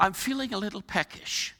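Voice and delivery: put-on a light, half-hearted British accent; attempted British accent. Pastor imitating British mother's hunger, tentative British accent. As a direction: put on a mild British lilt, a little softly. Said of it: "Sorry, my British accent is not".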